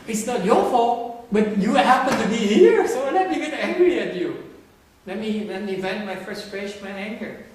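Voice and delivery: loud, slowed, half-laughing rant; mock angry venting. Teacher acting out a person venting at a bystander, loud and mock angry. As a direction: act out dumping anger on a bystander. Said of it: "You say".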